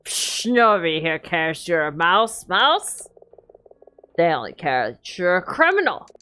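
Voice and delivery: put-on drunk voice. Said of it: "That was my best drunky voice".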